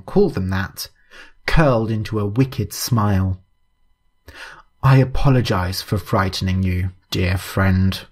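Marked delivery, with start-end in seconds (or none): 4.8-8.0 a lower, oily courtesy; lightly voiced creepy gentleman; lower sinister voice. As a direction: purr the apology with false kindness.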